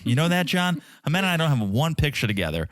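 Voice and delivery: whiny Mike voice. Pretend. Voicing Mike complaining to John.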